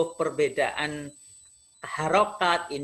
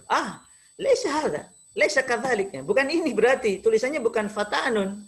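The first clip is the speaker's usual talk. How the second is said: higher-pitched imitation of a correcting teacher; teacher's correction; 4 semitones higher than usual. Arabic teacher correcting pupil's spelling, mildly emphatic imitation. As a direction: lightly act a teacher objecting. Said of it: "Lalu guru saya".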